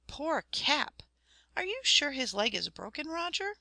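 put-on a distressed child pleading for her hurt dog; young girl crying out. A narrator's reading. Girl upset that the shepherd's dog is hurt, high distressed plea. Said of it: "cried Florence".

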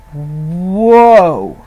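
slow, low, long whoa; a stunned, drawn-out whoa, pulling him up short; a low, stretched whoa. Retold or imitated. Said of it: "I said".

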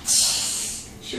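soft, voiceless hush; whispered shush. Shown as a demonstration. Parent reminding the child to whisper, a whispered shush. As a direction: shush gently to prompt whispering. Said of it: "Can you whisper?".

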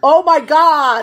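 slow loud laughing cry; laughing hard. Real, not acted. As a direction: gasp it out mid-laugh. Liquor spilled, laughing hard.

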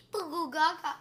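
put-on babyish babble; a hint of a baby voice; toddler babble. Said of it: "acting like a toddler".

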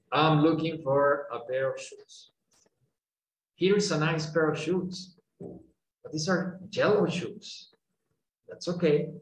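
slow careful reading; slow dialogue read. Shown as a demonstration. Teacher reading the dialogue slowly to students. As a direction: read each line slowly. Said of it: "voy a hacer las primeras cuatro".

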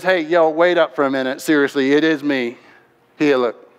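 lightly acted low, easygoing voice; casual reassurance. Jesus telling startled followers it is him, casually reassuring. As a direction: drop the pitch and calm them lightly.

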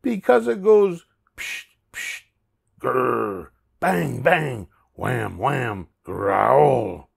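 high pig cry into noise imitations; excited pig imitating monster sounds; yelling Pig. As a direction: start high, then act out each scary noise. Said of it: "Pig yelled".

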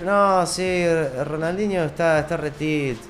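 hammed-up mocking voice; mock silly claim. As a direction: parody someone calling Ronaldinho tilted. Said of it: "Eso es como decir".

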